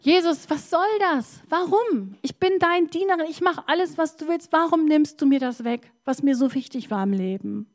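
high, pleading cry to Jesus; retold crying out. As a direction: cry out Why in despair, pitched high. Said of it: "Und hab so geschrien". (flehender Aufschrei zu Jesus, hoch)

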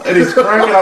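talking through laughter; laughing. Real, not acted. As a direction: laugh while telling it. Laughing while retelling.

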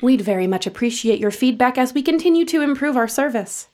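bright, brisk scripted survey read; customer service voice. Acted. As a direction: rattle off the survey cheerfully.

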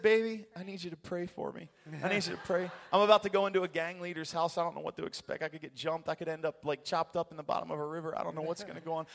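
hammed-up nervous phone call; mock-anxious pleading. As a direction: plead with comic alarm. Retells anxious phone call to wife.

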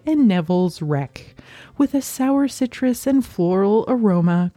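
smooth product announcer read. Acted. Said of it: "Do you like my announcer voice?".

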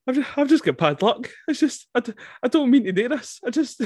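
high, hard-done-by film hero impression; Brad Pitt. Retelling Brad Pitt's excuses to a pal, high mock pleading. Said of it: "Brad Pitt is just going".

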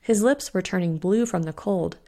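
ordinary delivery

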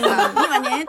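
put-on hint at a boy's auntie-style speech; effeminate boy talk. Schoolboy copying mothers' words, lightly imitated feminine talk. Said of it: "お姉言葉で話す子".

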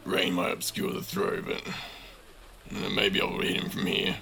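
hushed inner monologue, muttered; thinking to himself. A narrator's reading. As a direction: half-whisper a thought, working it out. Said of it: "Uru thinks to himself".

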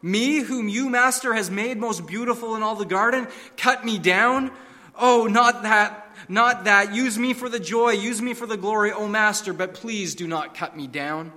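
high, loud, horrified begging; horrified pleading. Acted. Bamboo begs the master not to cut him down, horrified and pleading. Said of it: "A trembling of great horror shook Bamboo".

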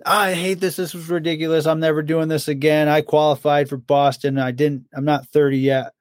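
imitating the Jackal griping after a marathon; imitating whiny friend. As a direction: whine it like a sore runner fed up after a marathon. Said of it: "And he's".

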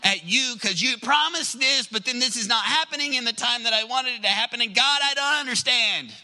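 acted frustrated complaint to God; mildly worked-up protest, building toward the end; angry, frustrated. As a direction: plead in mounting frustration. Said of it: "sometimes we get angry, frustrated".

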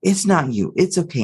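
put-on soothing mother to a scared child; acted, mildly tender mom; comforting. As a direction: apologize gently and reassure. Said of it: "And she's comforting".

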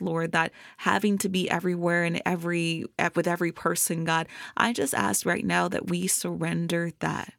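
earnest spoken prayer to God. Real, not acted. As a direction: pray it out, steady and heartfelt. Closing prayer after the episode.

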